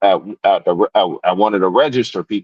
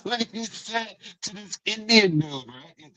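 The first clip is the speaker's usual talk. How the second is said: laughing; 12 semitones higher, 8 dB quieter than usual. Real, not acted.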